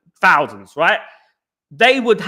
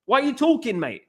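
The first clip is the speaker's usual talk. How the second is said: higher, pointed why are you talking, mate; scornful challenge; 5 semitones higher than usual. Pretend. Telling Jamie Carragher to stop talking, scornful. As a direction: put the pundit down with scorn. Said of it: "That's what I would say to him".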